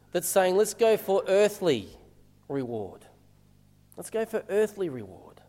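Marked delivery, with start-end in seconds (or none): 0.6-3.1 lightly voiced inner urge, slow, dropping away on "reward"; inner little voice. Preacher voicing everyone's inner little voice, slow and tempting. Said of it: "this inner little voice". 3.9-5.4 softer repeat in one unbroken phrase; inner little voice. Acted. Preacher echoing the inner little voice to the congregation, hushed and understated. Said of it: "this inner little voice".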